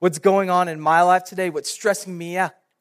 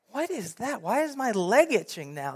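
hushed puzzlement; 4 semitones higher, 8 dB quieter than usual. Retold or imitated. Puzzled by sudden itch.

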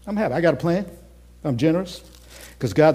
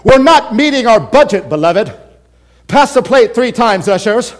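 guilt-tripping preacher; 6 semitones higher, 8 dB louder than usual. Retold or imitated. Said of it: "The preacher stands up and says".

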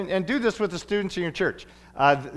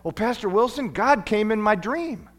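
put-on child voice; 5 semitones higher than usual. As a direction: voice the earnest first grader. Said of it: "he said".

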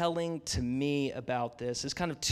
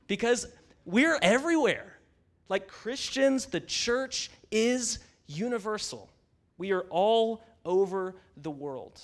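rising preaching emphasis; 4 semitones higher than usual. Real, not acted.

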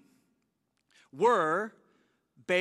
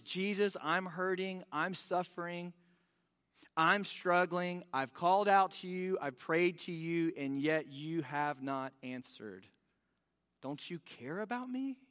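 hurting prayer; 2 semitones lower, 4 dB quieter than usual. Retold or imitated. Voicing a hurting believer's prayer.

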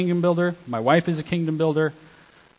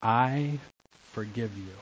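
much softer, tender I forgive you; soft forgiveness; 4 semitones lower, 7 dB quieter than usual. Shown as a demonstration. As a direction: let it fall gently. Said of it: "Say the words".

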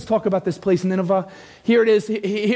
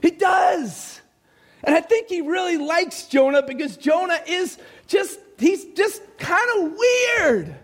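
high, drawn-out preacher's cry; emphatic preaching; 9 semitones higher, slower than usual. Real, not acted. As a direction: preach it high with big stretched words. Preaches at full force.

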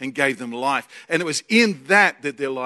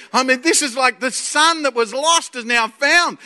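ordinary talk

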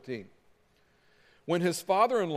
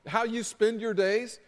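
higher-pitched disbelieving questioning; incredulous; 4 semitones higher than usual. Acted. Father-in-law confronting Moses about his job, incredulous. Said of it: "looks at Moses and says as much".

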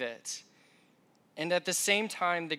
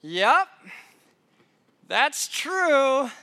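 yelling back; 6 semitones higher, 6 dB louder, much slower than usual. Retold or imitated. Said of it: "so I yell back at her".

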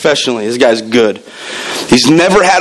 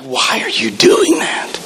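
mock critic; 5 semitones higher, slower than usual. Mocking critics of service.

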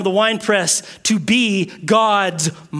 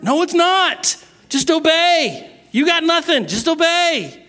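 higher, emphatic commands; forceful; 9 semitones higher than usual. Real, not acted. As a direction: press it hard. Forceful preaching rebuttal.

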